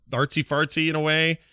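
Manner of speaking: ordinary talk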